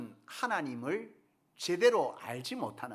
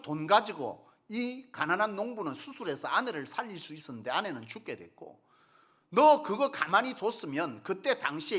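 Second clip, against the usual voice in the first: angry rebuke; 2 semitones higher, 4 dB louder than usual. Retold or imitated. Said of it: "화를 내면서 호통을 치는 겁니다".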